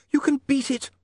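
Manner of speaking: high, pressing encouragement; urgent. A narrator's reading. Young woman pats the vampire's hand, urgent. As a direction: urge him on earnestly. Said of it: "she said urgently".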